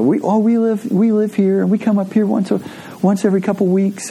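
a hint of a spry grandma chatting; cheery old lady.

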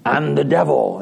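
a hint of a put-on devil. Costumed wife answering her husband, lightly voiced devil. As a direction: lightly play at being the devil. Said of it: "in her best devil voice".

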